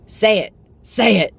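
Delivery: high, loud pushy mom voice; insistent motherly nudge; mom urging. Retold or imitated. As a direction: prod him like an eager mother. Mom urging dad retold.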